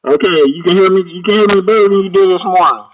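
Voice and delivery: muffled, like speaking underwater. Real, not acted. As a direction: voice smeared and muddy, bad audio. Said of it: "'cause I sound like I'm underwater".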